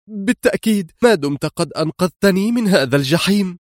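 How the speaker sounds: high, happy cry of relief; happy exclaim. Acted. Woman answers her rescuer with a high, happy cry. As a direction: burst out with joy at being saved. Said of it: "هتفت في سعادة".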